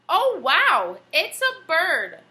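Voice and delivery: excited shout. Acted. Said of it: "Suddenly he shouted".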